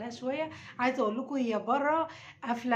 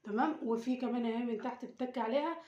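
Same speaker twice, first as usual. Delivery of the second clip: much softer, hushed so she won't hear; 3 semitones lower, 7 dB quieter than usual. Real, not acted. Mother hiding the lantern from her daughter, hushed. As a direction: keep it down, she's just outside. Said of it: "عشان هي بره وهتحس".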